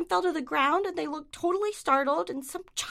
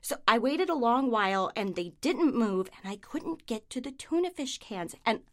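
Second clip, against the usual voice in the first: deadpan monologue; 3 semitones lower than usual. Acted. Neurotic comic monologue.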